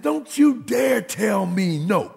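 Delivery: slow, high, stern warning; preacher playing his own outrage at his son; mock sanctified anger. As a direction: drag it out like a scolding father. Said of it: "spiritually ticked off".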